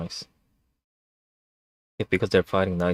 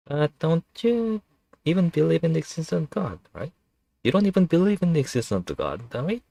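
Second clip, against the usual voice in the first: high, fast hissing snake creature; a scheming serpent, pitched up; 9 semitones higher than usual. Acted. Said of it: "snake voice was really taxing".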